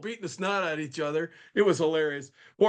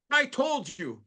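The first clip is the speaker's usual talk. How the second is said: higher-pitched mock yell from the professor; retold phone yell; 8 semitones higher, slower than usual. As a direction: bark it like an annoyed teacher down the phone. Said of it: "Don't yell at me".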